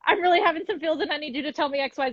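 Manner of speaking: mock needy whisper to partner. Quoting her own whispered plea to her partner. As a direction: breathe it like a shy request. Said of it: "I'm like".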